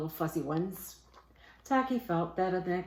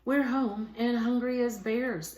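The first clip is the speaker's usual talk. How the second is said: loud, high, slow announcement as the bears; bears announcing; 6 semitones higher, 5 dB louder than usual. A narrator's reading. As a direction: boom it out like three hungry bears marching in. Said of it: "announced the three bears".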